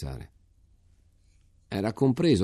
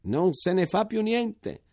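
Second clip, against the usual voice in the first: even higher, slow, falling joyful cry; exclaiming again; 12 semitones higher, slower than usual. A narrator's reading. Major repeating the news to soldiers, higher slow falling cry. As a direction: land it hard on fa and let it fall. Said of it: "esclamò".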